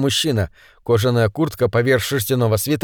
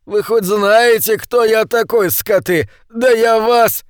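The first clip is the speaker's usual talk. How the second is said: high, loud and slow, indignant; outraged yell; 8 semitones higher, 4 dB louder, slower than usual. A narrator's reading. Beaten politician yells indignantly at bandits. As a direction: rage at the thugs who hit him.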